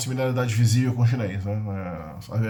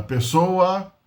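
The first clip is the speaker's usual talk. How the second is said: slow gloss; 4 semitones higher than usual. Shown as a demonstration. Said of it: "três e classificador no final".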